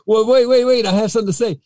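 very high, squeaky mock plea; pleading kid. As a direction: plead like a child just hung up on. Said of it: "And I'm like".

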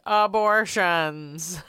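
slow, drawn-out call through a megaphone; megaphone announcement. Pretend. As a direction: announce it over a loudspeaker. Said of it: "megaphone... turn it on and be like".

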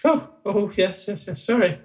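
high, hurried goblin apology; small high voice, meekly apologising; apologetic goblin. Acted. Goblin apologising for his tears.

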